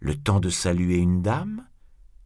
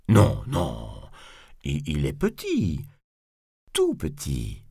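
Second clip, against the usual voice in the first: a touch of cowed stammer; timid backtracking; 5 semitones lower than usual. Acted. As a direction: placate nervously, faltering. Nervous bourgeois placates Cyrano.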